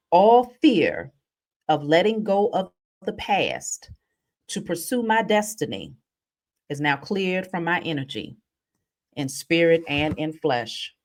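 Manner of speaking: slow solemn declaration. Shown as a demonstration. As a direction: read it out slowly, each phrase weighed. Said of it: "So it says".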